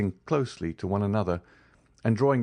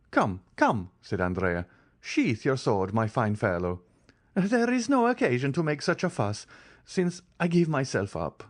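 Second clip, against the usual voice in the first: mocking bravado; 6 semitones higher than usual. A narrator's reading. Andrea surrendering with bravado.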